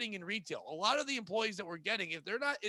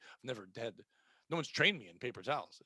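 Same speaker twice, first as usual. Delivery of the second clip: helpless Ralph; 8 semitones lower, 5 dB quieter than usual. Retold or imitated. Imitating Ralph's helpless excuse.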